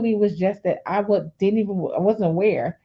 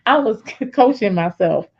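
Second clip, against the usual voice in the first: laughing; 2 semitones lower than usual. Real, not acted. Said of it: "I'm laughing myself on this".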